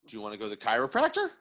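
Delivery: quick question as if to a pet; dog voice. Shown as a demonstration. Owner testing whether the dog responds, dog voice. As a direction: ask it in talking-to-the-dog voice. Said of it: "use your dog voice and go".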